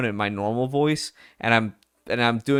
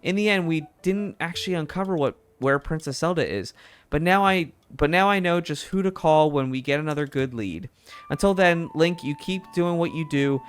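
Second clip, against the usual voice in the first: higher, lively editor voice, pleased; upbeat boss voice, pitched up; bright newspaper editor; 5 semitones higher than usual. Acted. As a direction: play the proud editor praising her star reporter. Same editor voice continues.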